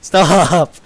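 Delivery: loud, high, drawn-out plea; mock protest. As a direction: whine it loudly at the chat. Protesting at chat.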